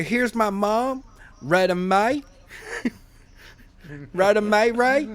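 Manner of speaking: Southern mom intro in a hammed-up Alabama accent; sing-song Southern accent, stretching the names; a mock Southern family intro. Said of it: "that accent".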